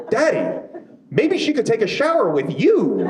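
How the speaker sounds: put-on high, eager kid voice; little boy voice. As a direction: pipe up like a hopeful toddler. Son voiced in a story.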